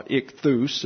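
"ichthus" with the weight on "-thus"; stress on second syllable. Shown as a demonstration. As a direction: put the emphasis of "ichthus" on its last syllable. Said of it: "is the second syllable em-, uh, emphasis".

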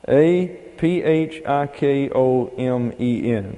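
slow, letter by letter; spelling it out. Shown as a demonstration. Teacher spelling a hard word for the class, slow and measured. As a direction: spell it out slowly, one letter at a time.

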